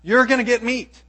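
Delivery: a hint of a playful God promising meat; God's party announcement. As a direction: throw it out like a party invitation. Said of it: "here he's telling Moses".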